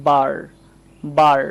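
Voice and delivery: বার as "baar", long open AH; AH vowel. Shown as a demonstration. Teacher models A before R, AH vowel. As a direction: say বার alone, drawn on an AH. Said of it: "আ এর মতো উচ্চারণ করব".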